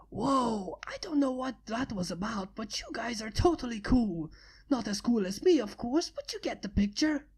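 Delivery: a hint of a cocky tomboy; breezy boastful girl voice; brash young flyer bragging; lightly voiced brash pegasus. Rainbow Dash's lines.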